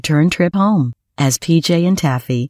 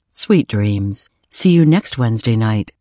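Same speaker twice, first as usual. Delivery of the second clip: lower-pitched, gentle uncle's farewell; tender goodnight; 5 semitones lower than usual. Acted. Uncle John hugging PJ goodnight, tender. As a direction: settle down kindly into a low goodnight.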